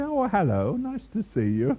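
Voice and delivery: light chatty imitation after the service; ordinary greeting voice, imitated. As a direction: mimic an everyday friendly greeting. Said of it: "their voice is different".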